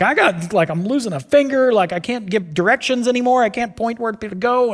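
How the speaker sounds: whiny complaint. Retold or imitated. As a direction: ham up the complaining patient. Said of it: "he's like".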